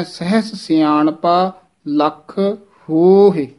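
slow ਸਹਿਸ as "sehs", long ਹੋਹੇ; measured recital, ਹੋਹੇ drawn out and falling; sehs, long hohe. Shown as a demonstration. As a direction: stretch the o of ਹੋਹੇ. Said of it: "ਸਹਿਸ ਉਚਾਰਨ ਕਰਨਾ ਹੈ".

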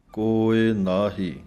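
slow ਕੋਇ ਨਾਹੀ, stop on ਨਾਹੀ; ਨਾਹੀ ਤੇ ਵਿਸਰਾਮ; pause after ਨਾਹੀ. Shown as a demonstration. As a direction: rest the voice on ਨਾਹੀ. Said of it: "ਨਾਹੀ ਦੇ ਉੱਤੇ ਵਿਸਰਾਮ ਹੈ".

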